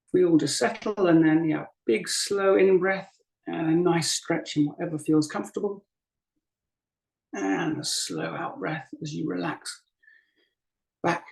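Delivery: unhurried guiding voice with long pauses; guided meditation. Acted. Teacher guiding a group to breathe and settle, guided meditation. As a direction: ease them gently through each breath, leaving space between phrases. Leads breathing and body practice.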